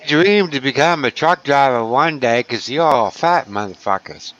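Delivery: fake Southern accent. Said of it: "What the fuck was that?".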